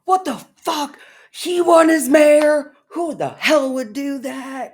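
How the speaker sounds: very high, loud, disbelieving; mock outraged viewer. Imagining Quebecois yelling at news, high outraged voice. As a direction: screech at the news in a cartoon voice. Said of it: "Are they just".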